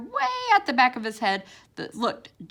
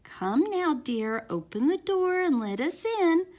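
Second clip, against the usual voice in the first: calm mom voice; 8 semitones higher than usual. A narrator's reading. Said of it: "calm mom voice".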